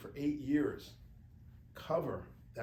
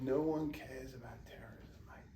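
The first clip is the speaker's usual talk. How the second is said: lightly imitated British editor; a hint of a put-on British accent; bad British accent; 3 semitones higher than usual. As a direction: repeat the quote in mock British. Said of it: "I'm sorry to do this terrible British accent".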